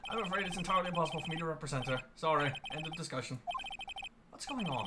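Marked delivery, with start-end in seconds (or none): 0.1-3.4 throat clear, then quick, evasive refusal; lightly voiced nervous elder; pompous old lawyer. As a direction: hurry to shut it down. Grossberg refuses the case.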